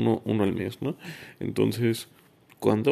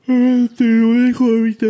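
talking through a yawn; words stretched by a big yawn; 14 semitones higher, 12 dB louder than usual. Real, not acted. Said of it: "perdón por bostezar".

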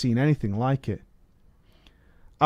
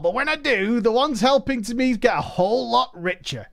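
higher, showy goblin host; goblin accent; 9 semitones higher than usual. Acted. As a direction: greet them like a grand goblin showman, pitched up. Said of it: "I can't do a goblin accent".

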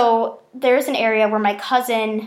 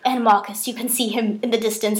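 put-on British accent. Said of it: "I would do the British accent".

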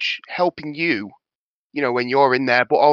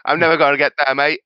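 louder, hammed-up Aussie accent; Australian accent; 6 dB louder, faster than usual. Player admitting a failed attempt, mock Aussie accent. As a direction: lean into a bad Australian twang. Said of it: "That's an Aussie".

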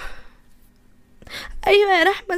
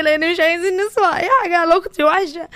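tearful; 4 semitones higher than usual. Acted. Grieving sister explains, tearful.

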